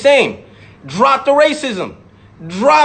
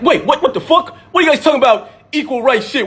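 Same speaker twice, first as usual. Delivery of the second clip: higher-pitched, indignant disbelief; mock triggered; 4 semitones higher, faster than usual. Speaker mimicking someone triggered by equal rights protests, mock indignant. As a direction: act out a triggered objector, voice pitched up. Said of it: "I would never be triggered".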